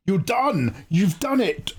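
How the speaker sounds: high excited shout of congrats. Real, not acted. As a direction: shout the news out with joy. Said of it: "Sorry, I'm shouting".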